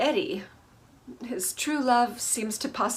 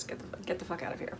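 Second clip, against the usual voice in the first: whispered quote; 11 dB quieter, much faster than usual. Retold or imitated. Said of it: "That's what he says".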